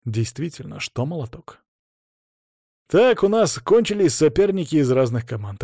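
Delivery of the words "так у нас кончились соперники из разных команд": raised, projected organiser's announcement; brisk public notice to the room; announcing. A narrator's reading. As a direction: address the assembled fighters. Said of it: "объявил Лёша".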